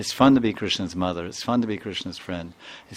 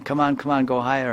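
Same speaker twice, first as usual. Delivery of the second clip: put-on higher-pitched child egging a friend on; lightly voiced kid urging a playmate on; mock urging; 5 semitones higher than usual. Voicing boy urging girl higher.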